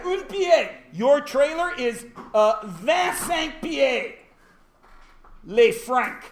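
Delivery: high, drawn-out hammed-up French; mock French. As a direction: play a noble in bad French. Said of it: "except this is all in French".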